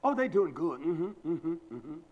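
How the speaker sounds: lightly mocking approval with a run of mm-hmms; a touch of parody in the humming tail; mimicked agreeable sister. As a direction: imitate her pat, gushing agreement.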